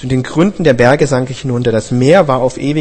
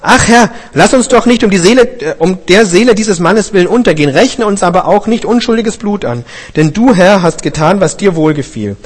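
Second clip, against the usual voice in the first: crying out to God; 6 semitones higher, 4 dB louder than usual. A narrator's reading. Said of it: "Da schrien sie zu dem Herrn".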